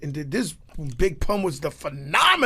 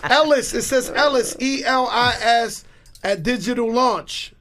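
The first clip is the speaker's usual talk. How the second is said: spelling it out, high and slow; excited announcing; 8 semitones higher, 5 dB louder than usual. Real, not acted. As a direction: read it out like an announcer. Reading name off screen.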